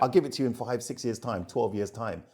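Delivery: quick, high, teasing no-no-no; mock dealer refusal. Dealer teasing an impatient buyer, quick high mock refusal. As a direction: brush off the buyer playfully.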